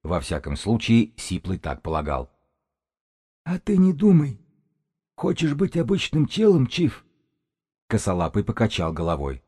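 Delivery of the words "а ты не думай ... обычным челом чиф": high-pitched eerie shaman, scraping on the nerves; high, grating sorcerer. A narrator's reading. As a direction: voice like metal scraping on glass, pitched way up. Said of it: "тихонько просвистел горлом шаман".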